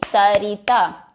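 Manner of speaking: सरिता slowly as स-रि-ता; three clapped beats on सरिता; split into syllables. Shown as a demonstration. Teacher claps सरिता in three parts for the class, slowly. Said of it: "तो तीन बार clapping होगी".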